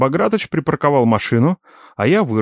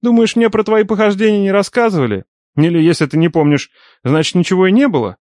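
uncle voice; 7 semitones higher than usual. A narrator's reading.

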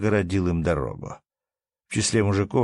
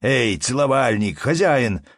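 raised, loud hail; calling out; 4 semitones higher, 4 dB louder than usual. A narrator's reading. Matvei shouts to the busy innkeeper, calling out. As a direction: hail someone busy across the room. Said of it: "закричал Матвей Трофимыч рыжему Борису".

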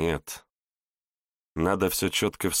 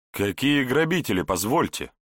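puzzled, raised voice; bewildered exclamation; 7 semitones higher than usual. A narrator's reading. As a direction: exclaim in disbelief. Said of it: "Недоуменно воскликнул Егор".

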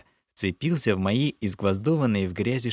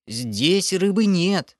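high, slow pleading creature voice; panicked creature denial; 9 semitones higher, 3 dB louder, much slower than usual. Acted. Lokhar insists to the hero, high whining. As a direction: whine it like a scared little goblin.

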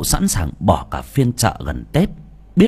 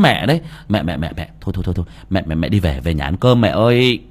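hurried; 3 dB louder than usual. Acted. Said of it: "gấp gáp".

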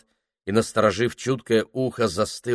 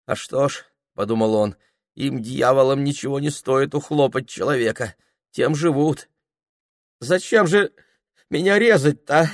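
high, pleading frightened voice; a peasant begging not to be killed; 6 semitones higher, 5 dB louder than usual. Acted. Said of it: "задыхаясь".

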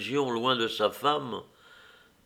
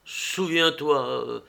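pleading; 4 semitones higher, slower than usual. Acted. Husband begging forgiveness.

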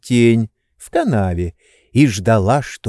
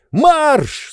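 sharp high shout; shouted order. A narrator's reading. Oblomov yelling the cook off to market. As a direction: yell her out the door. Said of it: "закричал он".

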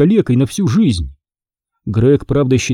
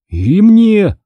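high, louder scared outburst; fearful; 8 semitones higher, 5 dB louder than usual. A narrator's reading. Michael wants to go home too, fearfully. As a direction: blurt it out high, afraid. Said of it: "со страхом сказал Майкл".

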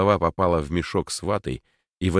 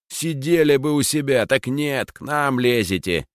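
resentful rant; 3 semitones higher than usual. Acted. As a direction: vent years of envy. Max's resentful rant at Lis.

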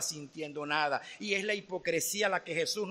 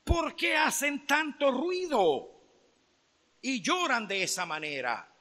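teacher's raised question; 4 semitones higher than usual. Retold or imitated. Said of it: "dice el maestro".

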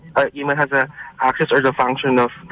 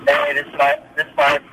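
far away; 2 semitones higher than usual. Real, not acted. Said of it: "You sound so far away".

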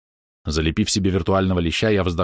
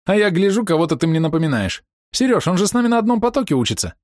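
high, louder eager chatter; girl realizing who he is; excited recognition; 11 semitones higher, 3 dB louder than usual. Acted. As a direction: spill it out in delight.

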